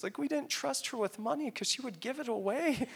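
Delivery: high, choked-up aside; real tearful voice. Real, not acted. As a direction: explain it while holding back tears. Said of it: "forgive me if I tear up".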